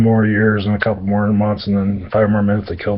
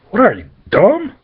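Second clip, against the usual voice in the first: much higher, sneering put-on voice; mocking Harry; 11 semitones higher than usual. Harry mocks the imp's silly name, high sneer. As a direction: needle the imp in a sneering squeak. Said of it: "Little Harry's like".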